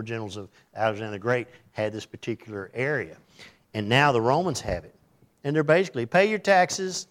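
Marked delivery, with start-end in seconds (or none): 6.0-7.1 stern demand. Retold or imitated. Voiced Roman demand.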